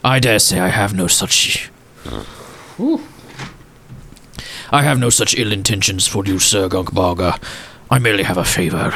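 lightly voiced old gent, hushed in places; a hint of a sorrowful old gentleman remembering; wistful old gentleman. Walsworth reassures.

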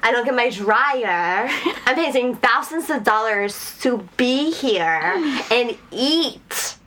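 slow, drawn-out mock indignation; mock offended. Guest who paid thousands protesting to staff, mock offended. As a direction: stretch the words in hammed-up offense. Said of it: "And I was offended".

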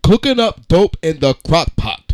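lightly solemn recital; dramatic reading. Shown as a demonstration. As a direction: read it like serious poetry. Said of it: "we are gonna have a dramatic reading".

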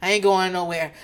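too drained to yell; Karen. Retold or imitated. Recapper imitating woman with no energy left, calm and drained. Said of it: "doesn't have the energy to be yelling".

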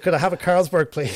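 put-on an Irish accent ordering a beer; Irish accent slipping back through the act. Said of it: "In my Irish accent".

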